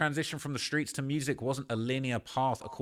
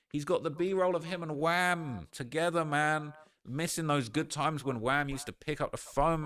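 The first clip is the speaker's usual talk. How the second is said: normal talking voice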